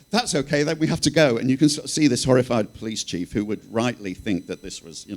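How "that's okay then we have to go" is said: Marie. Retold or imitated. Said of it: "And Marie literally says".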